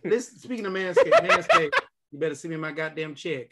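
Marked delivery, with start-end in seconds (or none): 0.0-1.7 laughing. Real, not acted. Mock sponsor plug, laughing.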